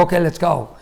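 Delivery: understated impatient readiness; a touch of bad mood; mildly grumpy. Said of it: "I'm not in a very good mood".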